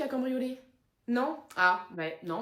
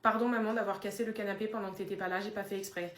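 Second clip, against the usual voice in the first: soft apology, fading lower in volume; sheepish apology; 3 semitones lower, 7 dB quieter than usual. Acted. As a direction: own up to mum in a small, quiet voice. Le chien demande pardon à maman. (excuses penaudes à voix basse)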